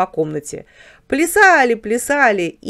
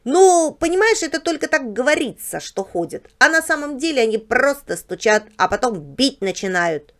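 higher-pitched explaining character voice; Barbos the house dog; 5 semitones higher than usual. Acted. House dog explains clocks to his guest, knowing. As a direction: play a know-all dog improvising an explanation.

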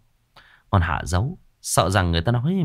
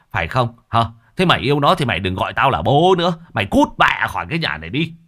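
scolding father, rising to louder, faster fury; angry father; 2 semitones higher, 3 dB louder than usual. Acted. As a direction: berate the daughter, then throw her out. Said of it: "Lão chỉ mặt con gái mà quát".

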